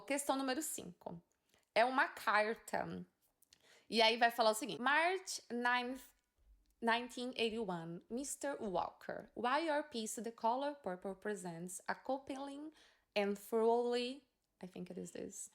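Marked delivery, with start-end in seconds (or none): 4.8-15.5 slow, careful read-aloud of a letter. Shown as a demonstration. Teacher reading the exam letter to students, slow and careful.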